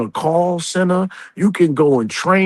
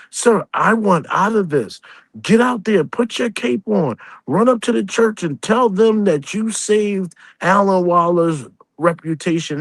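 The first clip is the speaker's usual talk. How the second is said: higher, mocking sneer; sarcastic mockery; 6 semitones higher than usual. Real, not acted. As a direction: taunt him like a fool. Mocking a rival online.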